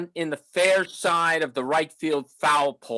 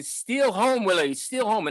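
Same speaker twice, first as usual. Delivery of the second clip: mild mock yell, pitched up; imitated fan's scream; 5 semitones higher than usual. Excited fan urging Willie to steal home, imitated high-pitched yell. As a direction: imitate a fan hollering with only a little extra volume. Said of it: "one fellow kept screaming ... in that Southern accent".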